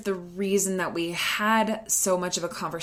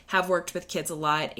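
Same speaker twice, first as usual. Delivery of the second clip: normal talking voice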